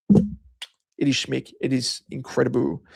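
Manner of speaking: it is schmick stretched out very slowly; drawn-out praise. Real, not acted. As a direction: savour each word of schmick. Praising the kebab shop.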